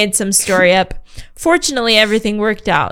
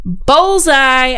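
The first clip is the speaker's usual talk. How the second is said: louder, higher triumphant yell; 5 semitones higher, 6 dB louder than usual. A narrator's reading. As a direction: crow it as the water hits. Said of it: "I yelled".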